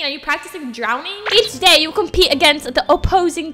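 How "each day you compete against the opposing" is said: put-on reading in a doubtful British accent; attempted British accent. Player reading out the game rules, attempted British accent. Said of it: "Why am I doing a British accent?".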